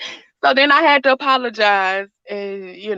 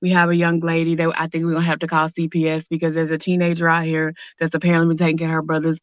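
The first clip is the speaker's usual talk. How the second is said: lightly voiced officer; 8 semitones lower, 3 dB quieter, faster than usual. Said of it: "they was like".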